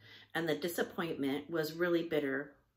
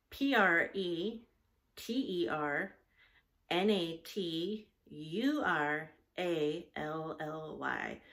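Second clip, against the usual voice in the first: spelling out; slower than usual. Shown as a demonstration. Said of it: "a very long word".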